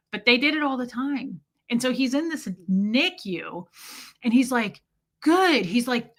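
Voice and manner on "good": imitated high, loud coo of approval; mock baby praise. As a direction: praise an infant in put-on voice. Man praising newborn, acted.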